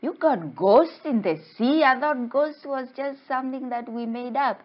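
high, loud startled questioning; acted shock, pitched well up; scared disbelief. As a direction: blurt it in mock fright. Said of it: "I was scared. I was like".

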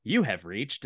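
a hint of automated greeting lady; automated voicemail lady. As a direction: lightly mimic an impersonal phone recording. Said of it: "like, lady who's like".

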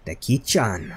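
put-on lightly Frenchified, playful accent; put-on French accent. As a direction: slip into a hint of French accent. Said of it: "put a French accent on".

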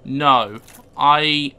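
sudden loud no; startled outburst. Real, not acted. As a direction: blurt it out, startled. Reacting to enemy.

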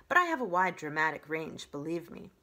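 grand, showy stage voice; dramatic diva voice. Acted. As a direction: boast like a theatrical diva. Theatrical opossum boasts.

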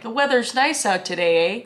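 lightly put-on Canadian accent, tagging on "eh"; casual Canadian remark with a questioning "eh"; Canadian "eh" demo. Shown as a demonstration. Vlogger teaching a Canadian lesson on "eh", Canadian accent. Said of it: "Canadian lesson number one".

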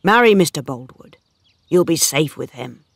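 understated sadness, spoken out firmly; sad, deep feeling. A narrator's reading. Poor suitor declares love to Bathsheba, sad but heartfelt. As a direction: plead earnestly with a touch of sorrow. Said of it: "He spoke sadly, but with deep feeling".

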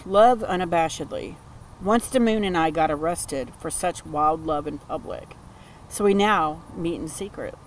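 card text read in a measured, deliberate reading voice; reading aloud. Acted. Reading the card's words aloud to her viewers, measured reading voice. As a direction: read it like an oracle's message to the listener.

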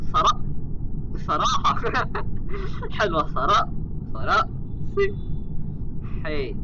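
words cut off by hiccups; trying to talk through hiccups; suppressing hiccups. Real, not acted. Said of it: "ويبقى عندي زغطة". (كتم الزغطة)

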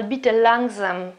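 Bitte langsam drawn out very slowly; slowly spoken. Shown as a demonstration. Teacher demonstrates saying please slowly, slowly.

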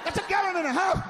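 high, slow whiny wife voice; mock wife voice. Mocking his wife pleading with the car, high and slow.

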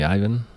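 Ivan starting with "eye"; Anglophone Ivan. Shown as a demonstration. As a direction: pronounce Ivan the English way. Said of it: "Anglophone people here".

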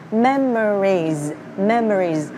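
MEMORIES said slowly with a voiced Z ending; careful pronunciation model. Shown as a demonstration. Teacher showing learners how to read the song title, careful pronunciation. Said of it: "Các bạn nhớ đọc giùm Thủy nha".

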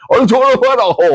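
high-pitched gabbled imitation; mock a fast talker with squeaky gibberish; rapid-fire mimicry. Host mocking the reporter's speed, high rapid gabble. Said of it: "ไอ้ห่าพูดไวเหลือเกิน".

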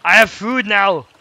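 slow, drawn-out triumphant cry; gleeful shout, stretched out; excited. Real, not acted. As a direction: announce the win like a victory. Triumphant find in game.

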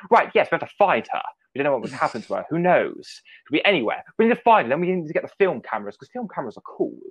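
mock-urgent Doctor rallying a search; Matt Smith voice. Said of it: "I keep talking in the Matt Smith voice".

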